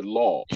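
law with a rounded, full vowel; heavy Lam. Shown as a demonstration. Teacher summing up the Fatha rule, heavy Lam. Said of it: "that Lam will pronounce".

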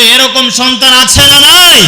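shouted question to the crowd; preacher's loud call for a response. Acted. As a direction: push it out loud so they answer. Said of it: "আওয়াজ করে বলতে হবে".

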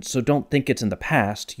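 "So don't think it's in the past" spoken naturally, leaning on DON'T, THINK and PAST; natural spoken stress. Shown as a demonstration. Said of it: "strongest emphases were on don't".

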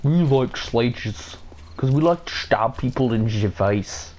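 slow, clumsy mock Russian; bad Russian accent. Gamer joking about stabbing people, bad Russian accent. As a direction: fake a poor Russian accent, drawn out. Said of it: "My Russian accent sucks".

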